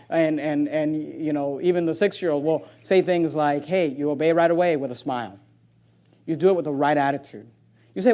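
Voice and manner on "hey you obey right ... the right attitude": put-on low, soft word to a small child; lowered, unforced parent voice; gentle parental instruction. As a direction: instruct a young child quietly. Quotes himself instructing his young children.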